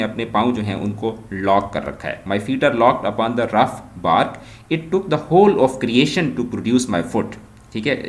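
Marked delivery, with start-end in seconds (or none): 2.2-7.3 slow, measured poetry reading; poem recitation. Acted. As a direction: read the verse out slowly, phrase by phrase. Reads the poem's lines aloud.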